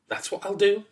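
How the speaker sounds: high, pleased announcement; happy announcement. A narrator's reading. Son announcing his plan to father, happily. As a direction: announce it high, mind made up. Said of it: "he announced".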